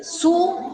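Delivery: "suave" broken up as su, a, ve; split into syllables. Shown as a demonstration. Teacher breaking the word down, syllable by syllable. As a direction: say "suave" in separate beats, su... a... ve. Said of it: "uno puede decir".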